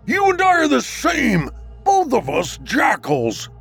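mocking creature voice; taunting shadow. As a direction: sneer at him in disbelief.

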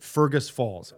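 Fergus Falls said plainly, stress on Fergus, falling; name your hometown the way locals say it; local pronunciation. Shown as a demonstration. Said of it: "That's how you say it".

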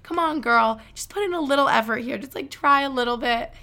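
upbeat self pep talk, a bit fast. Pretend. Talking to herself to stop her phone distraction, lively pep talk. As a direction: cheer yourself on, come on girl. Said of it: "giving myself a pep talk".

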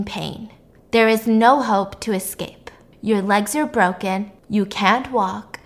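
lightly voiced slow, measured recorded message; captor's recorded message. Podcaster imitating a captor's brainwashing tape, slow and even. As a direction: recite it slowly like a tape on loop. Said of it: "playing a pre-recorded tape of his voice".

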